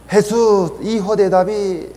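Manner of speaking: grito alto de un ciego que suplica; clamor imitado. Retold or imitated. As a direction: clama a Jesús con voz mucho más alta. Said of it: "le llamó a Jesús gritando, clamando". (clamor suplicante, en tono alto)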